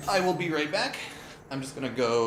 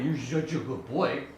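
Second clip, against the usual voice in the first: higher sing-song voice for the dog; 5 semitones higher, 4 dB quieter than usual. Real, not acted. Streamer coos at his dog Ruben in higher baby talk. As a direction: coo at him like a puppy.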